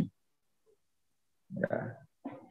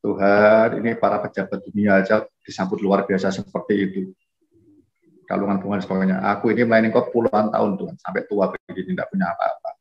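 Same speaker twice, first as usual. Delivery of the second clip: sad prayer. Retold or imitated. Retired missionary complains to God after coming home unwelcomed, mildly sad. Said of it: "sedih dia, nangis".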